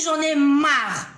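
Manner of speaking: slow, drawn-out fed-up declaration; reenacted weary ultimatum; retold inner cry. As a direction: drag out the exasperated order. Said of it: "j'ai crié comme ça dans mon cœur".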